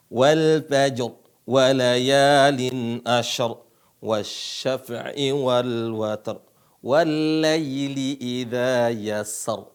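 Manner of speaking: slow Quran verses ending on a heavy r; slow recitation. Shown as a demonstration. Teacher leading students through the verses, slow and clear. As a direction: chant each phrase slowly, with a pause between. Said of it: "ikutin saya".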